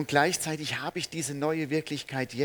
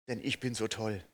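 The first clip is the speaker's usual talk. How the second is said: tossed-off smug misquote; mock boastful wrong line; 3 semitones lower than usual. Shown as a demonstration. Preacher misquotes the hymn on purpose, mock smug.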